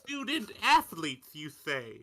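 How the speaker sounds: slow, drawn-out put-on gentleman's voice; South Park impression. Co-host quotes South Park about student athletes, slow hammy character voice. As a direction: play up a mock-genteel reaction, drawing the words out. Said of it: "that's a South Park reference right there".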